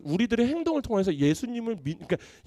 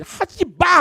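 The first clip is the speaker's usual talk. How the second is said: high, loud stern don't-you-dare; mock parent shout; 11 semitones higher, 6 dB louder, much slower than usual. Parents warning their kid off, loud mock yell. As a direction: bark it like a parent forbidding.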